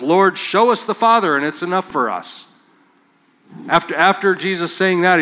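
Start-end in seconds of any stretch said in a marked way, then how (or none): 0.0-2.5 voicing Philip. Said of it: "channels his inner Thomas and says".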